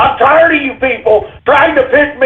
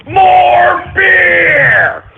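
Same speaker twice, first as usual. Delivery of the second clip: bellowing call; 6 semitones higher than usual. Real, not acted. Calling for beer.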